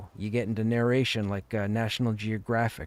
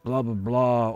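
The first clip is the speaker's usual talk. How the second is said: gruff voice; slower than usual. Shown as a demonstration. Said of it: "They want the gruff".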